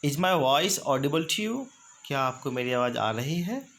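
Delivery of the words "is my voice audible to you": slow and careful; slow model phrase. Shown as a demonstration. Teacher modeling a check on the line, slow. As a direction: stretch the question for learners. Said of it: "next है".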